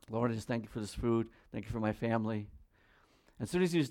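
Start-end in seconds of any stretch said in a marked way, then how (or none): 0.1-2.5 mock mealtime prayer. Father praying at table.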